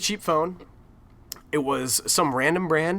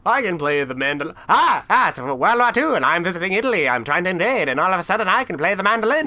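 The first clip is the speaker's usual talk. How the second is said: mocking movie soldier; 3 semitones higher, 3 dB louder than usual. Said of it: "this random dude like".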